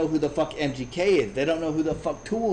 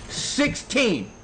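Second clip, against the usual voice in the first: higher voice for her answer; imitated young girl; 5 semitones higher than usual. Quotes the girl's answer.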